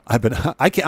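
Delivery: cracking up mid-sentence; can't stop laughing while talking. Real, not acted. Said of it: "I can't stop laughing".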